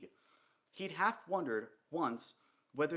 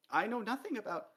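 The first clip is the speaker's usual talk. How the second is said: high, raised, panicky denial; frightened dwarf; 10 semitones higher than usual. A narrator's reading. Dwarf denies everything to the king, frightened. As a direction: blurt it out, scared of the king. Dwarf pleads under interrogation.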